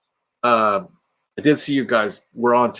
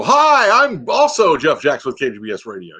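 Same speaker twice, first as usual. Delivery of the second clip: mocking impression; 3 dB louder than usual. Retelling how he would have mocked the radio guy, in a light mocking parody voice. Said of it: "If I was mocking you, I'd go".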